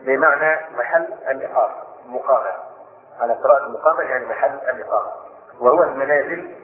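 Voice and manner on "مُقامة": "مقامة" said muqama, starting with mu; damma on the mim. Shown as a demonstration. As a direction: give "مقامة" a short u after the mim. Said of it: "بضم الميم".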